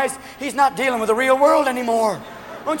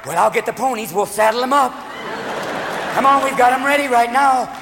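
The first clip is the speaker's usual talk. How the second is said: rally the posse, getting more worked up; Ronald Reagan; 3 semitones higher than usual. Acted. President imagines saddling up the ponies, eager cowboy voice. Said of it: "Ron get that look in his eyes".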